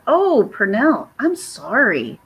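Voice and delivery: slow, drawn-out sympathy; sympathetic. Real, not acted. Streamer consoling a sick viewer, sympathetic. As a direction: console gently, stretching the words.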